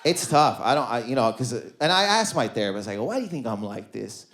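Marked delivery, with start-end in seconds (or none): 3.0-4.2 softer, lower acted asking; low, subdued question. Man asking his therapist why, low and subdued. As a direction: ask it quietly, as a retold confession. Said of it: "I don't think I asked her that way".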